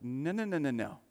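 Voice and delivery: insist, no way this happens; excited denial from a disciple who won't accept it; Peter protesting. Retold or imitated. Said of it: "And Peter's like".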